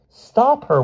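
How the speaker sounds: very high, loud alarmed wail. A narrator's reading. Martha seeing Mother on the horse, wailing. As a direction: wail to have her stopped. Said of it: "wailed Martha".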